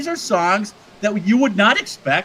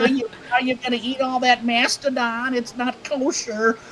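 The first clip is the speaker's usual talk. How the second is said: put-on Yiddish accent; 5 semitones higher than usual. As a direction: play a joking Yiddish caveman with a Yiddish accent. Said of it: "it's a Yiddish voice".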